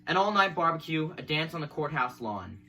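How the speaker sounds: measured recital of a poem; poetry reading. Acted. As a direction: read the verse evenly, phrase by phrase. Reads a poem aloud.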